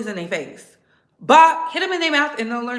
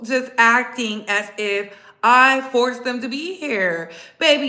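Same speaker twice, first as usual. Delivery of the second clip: ordinary talk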